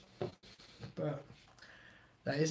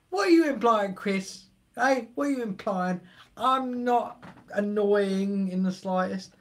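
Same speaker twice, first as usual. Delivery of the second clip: mock indignation. Streamer again protesting at Chris, hammed-up offence. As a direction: feign offence, teasing.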